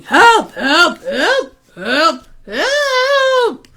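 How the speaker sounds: string of short cries rising to a high last one; mock yelling man. Man running in circles, mock yells for help. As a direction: cry for help, mildly at first, then high. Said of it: "man who was running around ... yelling".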